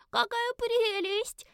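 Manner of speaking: put-on high, slow, delighted child cry; delighted little girl. A narrator's reading. Little girl admiring the lizard creature, high and delighted. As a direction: squeal over the cute creature. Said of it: "восхитилась малышка".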